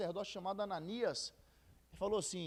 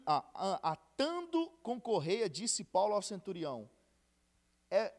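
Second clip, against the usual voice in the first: scripture reading; 3 dB louder than usual. Acted. Reads Acts verses aloud.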